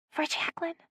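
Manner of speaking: high, breathless whisper of disgust. A narrator's reading. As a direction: whisper it through a grimace. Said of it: "She made a terrible face and whispered".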